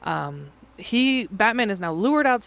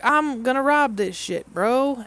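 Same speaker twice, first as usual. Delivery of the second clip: mock Two-Face; 8 semitones higher, 4 dB louder, slower than usual. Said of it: "He's like".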